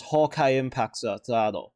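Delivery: "Hawkeye Impact Sa-, Tado" as HOH-kai Impact SAH-doh; Japanese dub pronunciation. Shown as a demonstration. Giving viewers the Japanese title, "Hawkeye" as HOH-kai, "Tado" for Third. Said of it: "in the Japanese dub".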